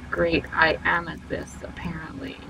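whispered self-mockery, trailing off; whispered aside. Real, not acted. Streamer admitting to viewers she is rusty, whispered. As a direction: confess it under your breath.

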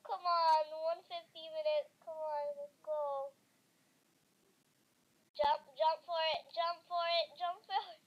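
loud urgent urging; frantic cheering herself on; being chased. Real, not acted. Urging her character on.

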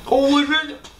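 high pained voice, mouth on fire; talking through burning chili heat; mouth burning from spicy food. Real, not acted. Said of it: "My mouth is on fire".

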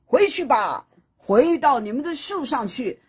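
booming loud warning to the suns; loud proclamation. Acted. Houyi on the peak warning the suns, loud commanding call. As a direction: declare it loudly from the mountaintop. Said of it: "他就大声地说".

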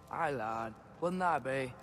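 put-on a half-hearted go at Mimir's accent; failed Mimir accent. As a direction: lightly attempt someone else's accent, badly. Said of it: "I can't do your accent".

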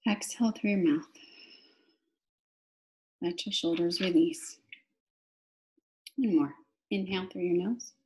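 breath cues with long silences; measured inhale and exhale instructions, room to breathe after each; guided meditation. Real, not acted. Teacher counts listeners through three breaths, guided meditation.

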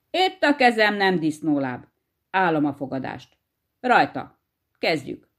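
a touch of puffed-up hare bragging; lightly voiced cocky hare sealing the bet; smug boast. Hare offers his hand to the hedgehog, mildly smug. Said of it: "fölényesen kidüllesztette a mellét".

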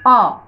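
"अ" held out alone as the opening vowel; first-sound demo. Shown as a demonstration. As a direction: isolate "अ" for the class. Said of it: "pronunciation क्या है". ("अ" को अलग से साफ़ बोलना)

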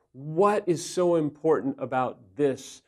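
slow, sincere question in an even voice; careful asking. Shown as a demonstration. Husband asking wife what he is missing, careful and sincere. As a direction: ask it gently, measured, really wanting to know. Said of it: "you have to be careful".

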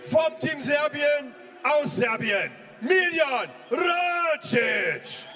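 slow, drawn-out fighter intro; boxing ring announcer. Real, not acted.

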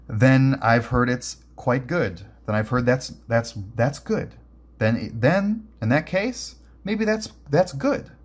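slow, rising, disdainful huff; faltering, huffy sarcastic retort; huffy sarcasm. Acted. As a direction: drag it out with grudging scorn. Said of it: "said Lutz, and huffed".

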